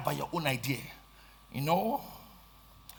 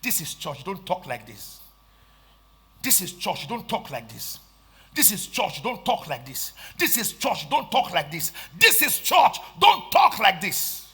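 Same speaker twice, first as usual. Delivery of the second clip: rebuke building to a shout. Retold or imitated. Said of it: "you say".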